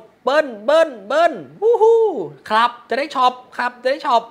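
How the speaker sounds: loud, high-pitched chanting cheer; imitated crowd shouting. Thai supporters yelling for a river card, imitated loud shouting. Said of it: "คนไทยตะโกน".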